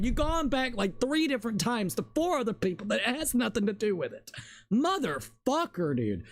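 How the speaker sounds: exasperated gamer rant; real exasperation. Real, not acted. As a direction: vent your real frustration, pitch climbing. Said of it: "Yeah, I'm getting annoyed".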